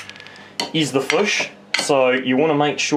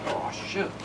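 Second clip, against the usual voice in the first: whispered curse; 5 semitones higher, 10 dB quieter than usual. Real, not acted. Fish breaks, whispered curse.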